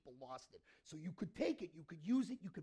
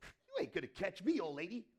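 put-on taunting kid; 6 dB louder than usual. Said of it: "So what did I do".

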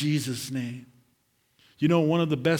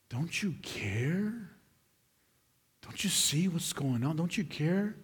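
hushed pleading whisper; 2 semitones higher, 4 dB quieter than usual. Retold or imitated. Preacher voicing a hurting believer's whispered prayer to God, hushed pleading. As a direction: whisper it like a desperate private prayer.

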